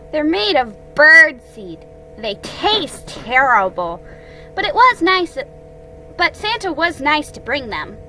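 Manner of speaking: Roo. Acted. Roo telling friends about the cookies, high-pitched. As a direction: pipe it high, slowing on the complaint.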